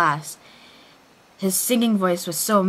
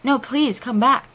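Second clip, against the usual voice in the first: higher, louder desperate plea; hammy stage actor; 6 semitones higher, 4 dB louder than usual. Acted. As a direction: beg dramatically. Draco pleading.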